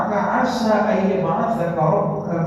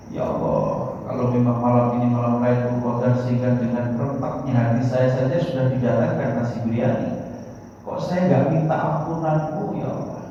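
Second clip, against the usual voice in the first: retold tearful prayer; 6 semitones lower than usual. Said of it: "nangis dia".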